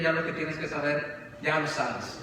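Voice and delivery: tired master dismissing his student; weary master. Acted. Master ending the lessons.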